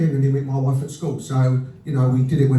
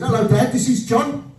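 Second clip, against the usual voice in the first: daughter's voice; 9 semitones higher, slower than usual. Retold or imitated.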